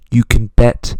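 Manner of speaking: loud and slow, stretching it; loud drawn-out boast. Acted. Future self promising a motion comic, loud and slow. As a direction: shout it big and slow.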